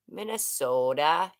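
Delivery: lightly imitated Minnesota accent with rising end. Streamer checking how a viewer talks, light Minnesota accent. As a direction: try out a Minnesotan accent, questioningly. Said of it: "Is that how you talk?".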